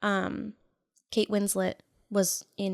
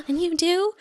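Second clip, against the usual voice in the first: mock indignant; 9 semitones higher, 7 dB louder than usual. Mock Bella retort, gasp before.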